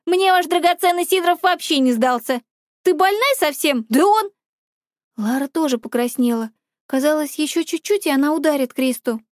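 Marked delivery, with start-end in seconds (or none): 0.0-4.3 a fury tearing into her friend; furious yell. Acted. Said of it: "Лара стала похожа на фурию".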